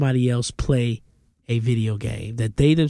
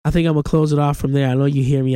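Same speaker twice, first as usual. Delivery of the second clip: stuffy nose voice; talking through a blocked nose; congested; faster than usual. Real, not acted. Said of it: "I'm congested".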